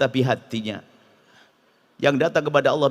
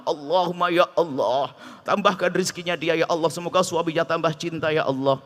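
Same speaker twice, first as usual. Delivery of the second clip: mock heartfelt prayer. Lender praying at midnight for the debtor, earnest prayer. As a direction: pray sweetly for the debtor's blessing.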